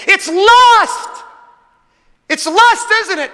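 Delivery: high, loud gotcha shout; triumphant guess. Retold or imitated. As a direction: nail it like a detective. Preacher acting out his guess.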